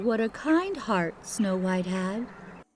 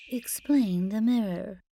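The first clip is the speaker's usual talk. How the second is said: usual speaking voice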